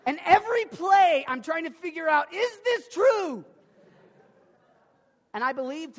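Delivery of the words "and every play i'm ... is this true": anxious excitement. Real, not acted. Anxiously watching every play.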